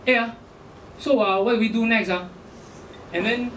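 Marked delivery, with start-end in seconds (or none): 0.1-2.2 light Malaysian English lilt; casual Malaysian-accented question. Retold or imitated. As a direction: imitate a Malaysian woman's accent. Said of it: "she's from Malaysia".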